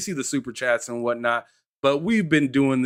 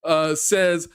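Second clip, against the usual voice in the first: mock boss voice; 5 semitones higher than usual. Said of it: "It just coulda said".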